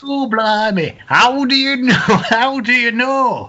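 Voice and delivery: high, loud, hammed-up astonishment; exaggerated stage-comic disbelief; vaudeville straight man. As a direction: overplay the music-hall comeback. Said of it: "so your response is".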